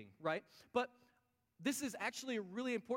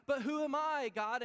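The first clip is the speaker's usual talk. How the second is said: high, loud protest of disbelief; who me, pushed up high; incredulous Moses; 7 semitones higher, 8 dB louder than usual. Acted. Moses pleading with God.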